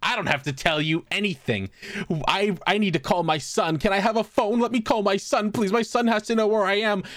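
high, rising into a desperate loud cry for her son; confused old lady voice. Retold or imitated. Old lady begging staff for her son, high pleading voice building to a cry.

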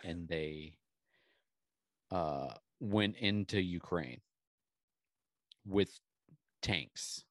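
put-on slow, over-simple explaining as if to a child; mock simple explainer. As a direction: spell it out slowly like a patronising politician. Mocking a politician's simple explanation.

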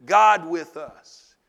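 loud, slow declaration; emphatic repeat. Real, not acted. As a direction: proclaim it slowly at full voice. Preacher repeats phrase for emphasis.

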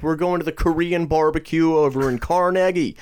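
high, hammed-up New York guy; exaggerated New York coworker talking up a plan; New Yorker impression. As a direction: invite like a mock New Yorker. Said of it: "this new guy from New York".

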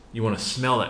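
put-on light Macedonian accent, grandfather; grandfatherly Macedonian accent. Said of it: "you know, Macedonian accent".

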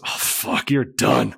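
lightly imitated coach on the radio; Nick. Coach calling off the flight, lightly mimicked exasperation. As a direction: breathe the first words, then voice the verdict. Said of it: "Nick gets on the radio".

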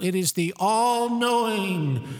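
slow, booming announcer proclaiming the binder; mock-solemn announcer voice; big boomy voice. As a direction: boom it out like a grand reveal. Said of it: "can I have the big boomy voice".

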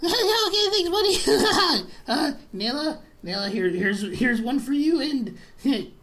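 put-on drunk goblin barkeep.

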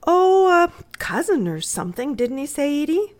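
put-on high-pitched child's voice; airy high child, checking with a sister; little girl. Little girl answering Papa about William John, childlike.

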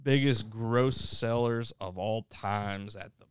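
slow match-up announcement; big, drawn-out bracket intro; announcer. Acted. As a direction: draw out each title like a ring announcer. Announces the next movie match-up.

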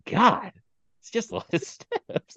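put-on high, slow, sighing old man; imitating the old man. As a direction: mimic a tired old man complaining about stairs. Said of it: "The way he said".

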